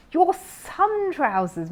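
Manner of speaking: high, slow careful repeat. A narrator's reading. Bear repeating the words for the neighbour, slow. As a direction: say it slowly and clearly.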